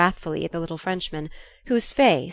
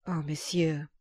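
distressed plea; 6 dB quieter, slower than usual. A narrator's reading. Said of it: "absolute distress".

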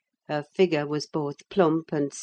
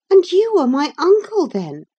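put-on high excited girl's cry; young girl crying out in delight; 13 semitones higher, 9 dB louder than usual. A narrator's reading. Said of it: "she cried".

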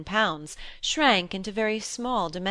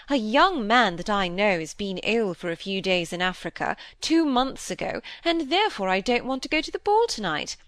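mocking quote; 2 semitones higher than usual. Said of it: "Fancy her going and saying".

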